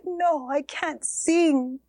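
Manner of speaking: slow, broken whisper; whispered refusal. Acted. Mother refuses her children's request to sing, slow whisper. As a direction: barely breathe the words out in grief.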